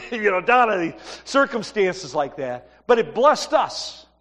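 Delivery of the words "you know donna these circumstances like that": laughing. Retold or imitated. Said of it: "And I always laugh".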